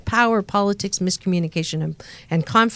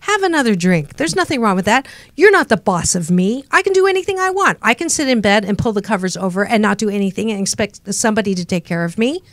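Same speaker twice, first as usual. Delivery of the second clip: bratty inner voice. Acted. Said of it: "another voice called the brat".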